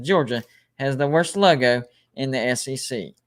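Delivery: mild impression, parcelling out the words with pauses; Sea Dog. Host mimics a superchatter knocking Georgia, lightly imitated. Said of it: "That was my impression of Sea Dog".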